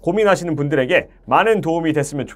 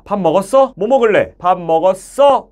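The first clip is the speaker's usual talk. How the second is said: everyday question handed to the listener; easy conversational questions; casual asking; 3 semitones higher, 4 dB louder than usual. Shown as a demonstration. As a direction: ask naturally, sending it across. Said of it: "물어봐야 되니까".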